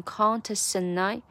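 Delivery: "contest and I" run into one smooth phrase; "contest and I" linked without breaks; linked pronunciation. Shown as a demonstration. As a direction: drop the final t of "contest" and slide into "and I". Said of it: "and I变成contest and I".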